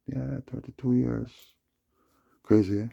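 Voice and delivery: loud astonished outburst; amazed exclamation. Real, not acted. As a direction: exclaim the years in disbelief. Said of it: "exclaims at long time".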